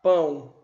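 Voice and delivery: Pão com ã nasal e bem marcado, mais forte; clear demonstration. Shown as a demonstration. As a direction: diga Pão destacando o som nasal. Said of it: "o A tem o som de A". (professora mostra o som de Pão)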